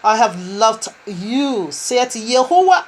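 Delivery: "I have loved you" drawn out slowly and tenderly, lingering on each word; slow, loving delivery as the groom to his bride; romantic reading. Shown as a demonstration. Preacher reads the groom's words to his bride, slow and tender. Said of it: "this is accent so romantic".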